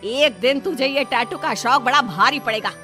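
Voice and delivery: mother-in-law's stern lecture; exasperated nagging, not shouted; flaring up. Acted. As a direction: scold her with a touch of anger. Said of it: "ज्यादा भड़क जाती है".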